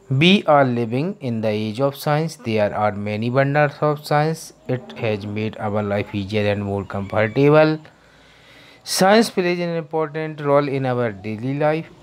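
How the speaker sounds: slow, careful word-by-word reading for students; teacher reading an English passage to the class; slow reading aloud. Shown as a demonstration. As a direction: read it slowly so the class can follow. Teacher reads English text aloud.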